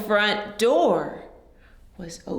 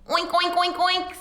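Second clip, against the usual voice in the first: pig oinking; 5 semitones higher, faster than usual. Acted. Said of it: "said Pig".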